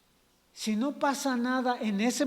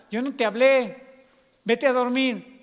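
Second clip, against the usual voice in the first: exasperated dismissal; 3 semitones higher, 7 dB louder than usual. Acted. Eli sends Samuel back to bed.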